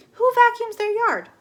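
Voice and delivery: who on earth would do that; incredulous. Acted. Flora watching the neighbor, loud disbelief.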